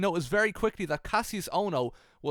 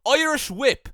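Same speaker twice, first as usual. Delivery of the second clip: loud, higher mock battle cry; mock scream; 7 semitones higher, 8 dB louder, slower than usual. Retelling a wrestler yelling at a reporter, mock scream. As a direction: yell it out as a move call. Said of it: "He screamed".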